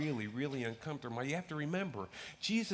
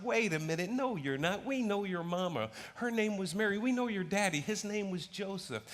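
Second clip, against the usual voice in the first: scoffing crowd; 5 semitones higher than usual. Acted. Crowd scoffs at Jesus' claim.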